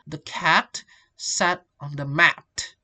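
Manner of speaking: "the cat sat on the mat" slow, evenly beaten on cat, sat, mat; regular stress-timed rhythm. Shown as a demonstration. Teacher illustrating rhythm, "cat", "sat", "mat" slowly stressed. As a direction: beat out "cat", "sat", "mat" at even intervals. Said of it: "to keep the rhythm consistent".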